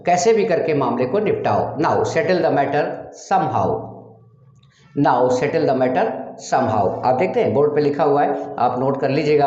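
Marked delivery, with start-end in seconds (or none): 1.8-7.1 1 slow demo. Shown as a demonstration. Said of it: "teacher demonstrates English sentence".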